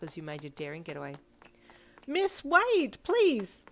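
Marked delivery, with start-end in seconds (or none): 2.1-3.6 high, loud pleading cry; shrieked plea in a much higher voice. A narrator's reading. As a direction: call after someone, pleading. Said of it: "two of the girls cried".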